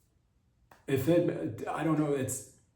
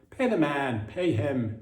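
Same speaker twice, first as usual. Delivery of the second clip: insistent demand; 4 dB louder, slower than usual. Real, not acted. Demanding justice for the Piper.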